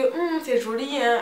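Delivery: admiring hum in a mock Congolese accent. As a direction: coo it like a Congolese customer. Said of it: "avec l'accent congolais".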